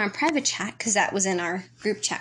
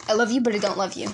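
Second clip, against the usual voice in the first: quick correction; faster than usual. Shown as a demonstration. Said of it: "There we go".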